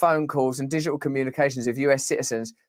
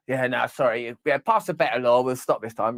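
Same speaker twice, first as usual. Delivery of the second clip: sheepish; 5 semitones lower than usual. Acted. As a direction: mumble a half-hearted sorry. Agency apologising in skit.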